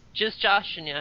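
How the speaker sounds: ordinary talk, nothing marked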